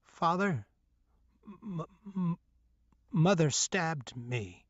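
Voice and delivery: halting, frightened stammer; stuttering. A narrator's reading. Injured boy stammering to his father. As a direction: stammer out the words, scared and hurt. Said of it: "I stuttered".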